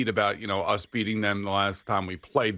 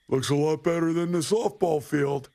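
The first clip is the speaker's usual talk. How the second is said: raised, higher heckling call; heckling shout; 6 semitones higher, 3 dB louder than usual. Retold or imitated. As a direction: call it out across the course. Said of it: "he's screaming at me".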